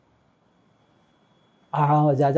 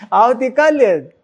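higher, louder, slow આવતીકાલે જ; firm certainty; 8 semitones higher, 6 dB louder, slower than usual. Retold or imitated. Old devotee insisting to his friend, firm. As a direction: lean hard into tomorrow.

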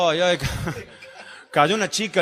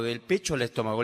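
falling pitch; 6 semitones lower, 6 dB quieter than usual. Acted. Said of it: "algo que me sube y me baja".

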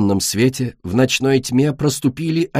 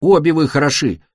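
growled; 4 semitones higher, 3 dB louder than usual. A narrator's reading. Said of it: "прорычал земляной дракончик".

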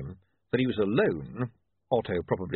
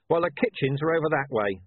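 lightly voiced gruff commander pointing the way; a hint of curt Vimes, waving him off; understated brusque commander tone; Vimes brushing off; 5 semitones higher, 4 dB louder than usual. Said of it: "said Vimes".

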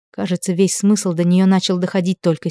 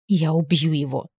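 angry hiss; 5 dB quieter than usual. A narrator's reading. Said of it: "злобное шипение".

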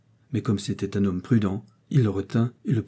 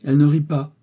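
louder, quivering with anger; trembling anger; 6 semitones higher, 7 dB louder than usual. A narrator's reading. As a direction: deny it hotly. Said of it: "la jeune femme frémissante".

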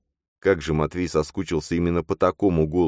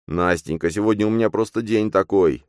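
groaning; 5 semitones higher than usual. Acted. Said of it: "простонал он".

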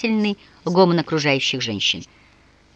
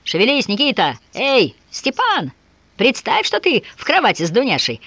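raised voice, calling across the ice; cheering yell; 7 semitones higher than usual. A narrator's reading. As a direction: bawl encouragement to the swimmers. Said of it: "драли глотки".

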